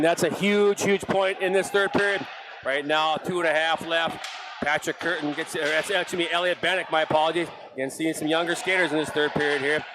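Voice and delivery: brisk running hockey commentary; play-by-play. Acted. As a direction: follow the puck line by line. Live hockey play-by-play continues.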